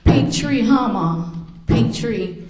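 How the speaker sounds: lightly teasing, lifted voice; imitated joking son. Jokester son teases mother about Christmas tree, imitated teasing. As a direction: poke playful fun at Mom's tree. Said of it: "'cause he's always a jokester".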